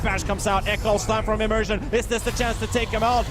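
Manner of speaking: excited. Real, not acted. Caster hyping a big fight.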